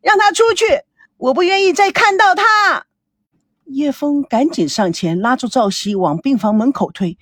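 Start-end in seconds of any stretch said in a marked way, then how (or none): 0.0-2.9 high, anguished yelling; heart-rending cry. A narrator's reading. Daughter before stunned parents, heart-rending cry. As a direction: cry it out as if torn apart. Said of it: "撕心裂肺地喊着".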